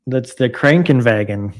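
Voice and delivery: Krankenwagen with a rolled, German-style kr and a v sound for the w; careful mock-German "Krankenwagen"; German accent. Shown as a demonstration. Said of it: "should I give it a try at it in a good German accent".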